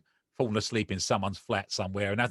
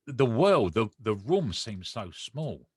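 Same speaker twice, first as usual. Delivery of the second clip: emotional; much slower than usual. Real, not acted. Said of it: "Makes me very emotional talking about this".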